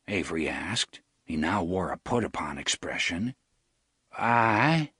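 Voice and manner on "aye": resigned. Acted. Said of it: "in a resigned voice".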